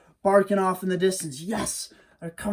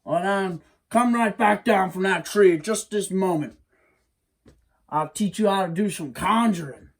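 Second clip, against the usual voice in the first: lightly voiced coaxing hairy man, a bit louder; a hint of a sly monster luring the boy down; hairy man coaxing Wiley down, lightly voiced; 4 semitones higher, 5 dB louder than usual. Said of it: "hairy man coaxes Wiley down".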